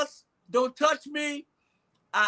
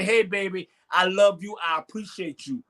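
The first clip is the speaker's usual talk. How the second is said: lower, tender words of love; tender to a partner; 5 semitones lower than usual. Acted. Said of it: "just say".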